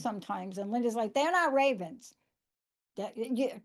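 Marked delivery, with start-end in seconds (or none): 1.2-2.1 imitating a friend with a New Jersey accent, higher and punched; mock New Jersey accent, flatly contradicting. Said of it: "do I do a New Jersey accent?".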